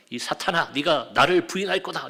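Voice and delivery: imitated scolding, pressing harder toward the end; mock rebuke. Imagined Jesus scolding Peter over his coming denial, rebuking. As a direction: act out a reproach that was never really made. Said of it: "그때도 책망하셨나요?".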